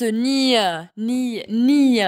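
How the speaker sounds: teacher's isolated "ni", one gliding ny sound. Shown as a demonstration. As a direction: sound out "ni" like the ny in canyon. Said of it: "ça se prononce ni".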